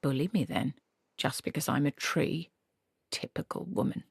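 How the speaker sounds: a lightly voiced tree, soft and aggrieved; sulky tree. A narrator's reading. A narrator voicing the sulking tree, lightly aggrieved. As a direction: grumble as a put-upon tree.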